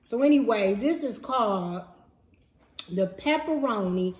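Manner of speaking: chewing while talking; talking around a bite of pizza; mouth half full. Real, not acted. Seen 4: Woman holds pizza at mouth; lips and cheeks look mid-chew.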